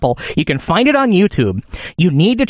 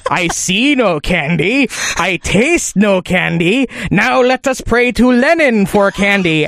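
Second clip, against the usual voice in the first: mock villain; slower than usual. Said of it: "And he's going".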